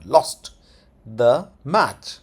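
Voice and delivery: short "lost", pause, then "the match"; pronunciation demo. Shown as a demonstration. Teacher showing a fast word, word-by-word demo. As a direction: say "lost" quickly, separate "the match". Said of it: "इसको बहुत fast बोलना है".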